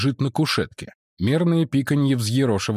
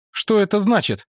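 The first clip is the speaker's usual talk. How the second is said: put-on high, lively young man's voice; Chen Ren voice; 11 semitones higher, 3 dB louder than usual. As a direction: Chen Ren wakes up and asks. (Чэнь Рэн спрашивает высоким голосом)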